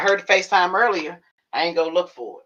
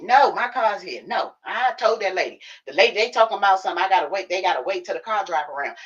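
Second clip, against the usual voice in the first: higher mock mom voice, insisting; imitating mom; 5 semitones higher than usual. Daughter mimics mom refusing a ride, lightly higher. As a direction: put on mom's fussy tone.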